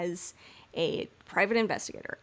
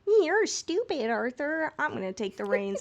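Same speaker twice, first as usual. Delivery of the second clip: mock bossy John; 5 semitones higher than usual. Acting out John bossing Arthur.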